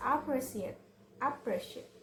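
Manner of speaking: "appreciate" with the second syllable stressed; emphasize the second syllable of "appreciate"; "appreciate", weight on the second syllable. Shown as a demonstration. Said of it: "with the stress on the second syllable".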